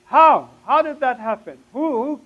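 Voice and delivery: high, startled questioning; baffled brain. Retold or imitated. Brain questioning the cleansed heart, startled disbelief. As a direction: fire off incredulous questions. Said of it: "my brain is saying".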